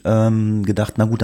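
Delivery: ordinary talk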